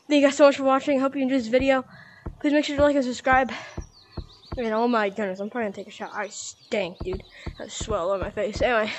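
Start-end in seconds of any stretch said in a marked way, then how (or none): 0.1-3.5 out of breath. Real, not acted. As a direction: still panting through the outro. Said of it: "sorry, I'm out of breath".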